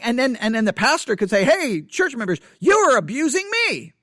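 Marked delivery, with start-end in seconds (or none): 1.4-3.9 mock accusation. Pastor voiced accusing his church.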